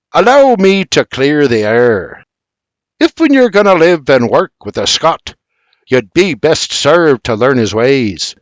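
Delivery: measured Scottish sergeant lecture; army sergeant. Acted. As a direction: pontificate like a drill sergeant. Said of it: "like an army sergeant, pontificates".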